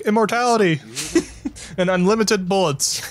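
high, hammed-up proud retort; mock-triumphant comeback; shot back. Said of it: "I shot back".

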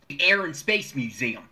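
slow mid-Atlantic accent, "Air" like "Aaron"; South Jersey accent, "Air and Space" drawn out; Philly accent, slowly. Shown as a demonstration. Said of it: "talking like this".

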